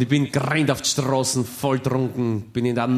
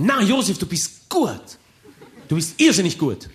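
higher, slow, hammed-up praise from the friends; friends' voice; 8 semitones higher, 3 dB louder, slower than usual. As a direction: stretch out "gut" in a mock buddy voice. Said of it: "Und sie sagen".

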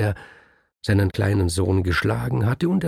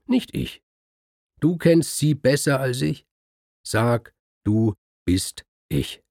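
insistent husband; 2 semitones higher than usual. Acted. The man urging the scribe to take his place, insistent. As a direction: talk him into it, du bist ich slowed.

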